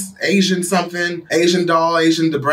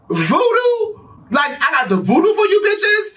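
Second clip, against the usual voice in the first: high-pitched mock disbelief; incredulous outburst; 12 semitones higher than usual. Retelling own shock at the voodoo claim, high and incredulous. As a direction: shriek it in exaggerated disbelief. Re-enacting shocked reaction to rumor.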